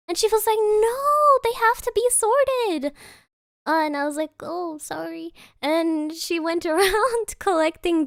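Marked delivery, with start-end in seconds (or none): 0.6-2.9 high, insistent mock scolding; imitated exasperation. Employee correcting the intern over misplaced glasses, mock exasperated. 4.4-5.3 soft little apology; imitated sheepishness. Scolded intern apologizing to the employee, mock sheepish.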